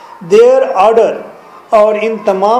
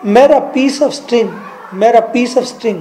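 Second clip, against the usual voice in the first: slow, lightly voiced dying man repeating himself; a hint of a dying man clinging to his words; dying man's plea; 3 semitones higher, much slower than usual. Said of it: "जबकि वो मर रहा था तो वो कह रहा था".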